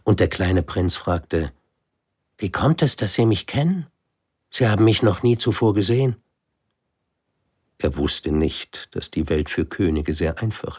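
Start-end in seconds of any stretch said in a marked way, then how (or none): 2.4-6.2 put-on lightly raised child's voice, quickening at the end; puzzled boy asking politely; a hint of a curious child. Little prince asks the king. (kleiner Prinz, leicht höher, neugierig)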